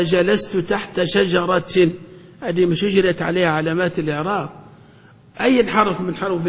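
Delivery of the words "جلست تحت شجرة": slow, deliberate example phrase. Shown as a demonstration. Teacher giving an example sentence to the class, slowly. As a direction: lay the example out word by word. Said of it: "آه".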